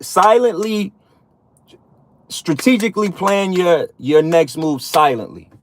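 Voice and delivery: quoting mother's advice. Retold or imitated. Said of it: "I'ma tell you like my mother told me".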